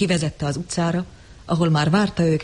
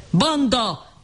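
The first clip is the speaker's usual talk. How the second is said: high, raised cry of scorn; shouted insult; 7 semitones higher than usual. A narrator's reading. John at the dumb crowd, shouting. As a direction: fling the word at the mob. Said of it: "ordította".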